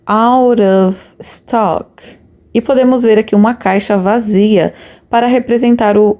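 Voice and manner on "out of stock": very slow, word by word out of stock; slow model pronunciation. Shown as a demonstration. Teacher modelling out of stock for students, very slow. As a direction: spell it out slowly for learners. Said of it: "teacher models English phrase".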